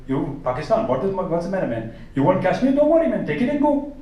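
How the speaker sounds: a lightly voiced, easygoing comic; Russell Peters impression. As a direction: play it like a laid-back comic solving Kashmir. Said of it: "someone like Russell Peters ... like".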